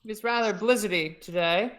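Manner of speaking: put-on Shakespearean British accent. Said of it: "Shakespearean Brits".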